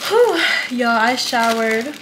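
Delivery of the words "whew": loud relieved whew. Real, not acted. Relieved after getting home.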